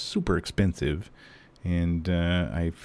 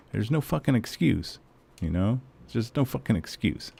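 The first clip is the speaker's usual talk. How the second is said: angry insistence; 4 semitones higher than usual. Real, not acted. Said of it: "I'm pissed".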